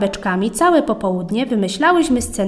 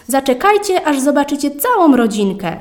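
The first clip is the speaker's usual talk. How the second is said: high, eager announcement; excited call; 4 semitones higher, 3 dB louder than usual. Acted. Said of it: "zawołała pani Malinowska". (podekscytowane wołanie starszej pani)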